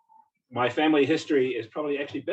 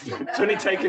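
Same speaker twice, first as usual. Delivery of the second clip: laughing it out, pitched higher; 7 semitones higher, 4 dB louder than usual. Real, not acted. Joking with the audience about arriving late, laughing. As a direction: chuckle through the words. Laughs at his own lateness.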